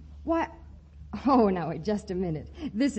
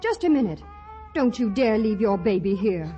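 louder, stern rebuke; indignant scolding; 3 dB louder than usual. Acted. Polly scolds the woman leaving the baby, loud and stern. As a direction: stop her with a firm scolding.

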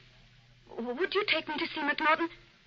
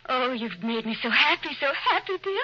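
overjoyed. Acted. Wife overjoyed at theater trip.

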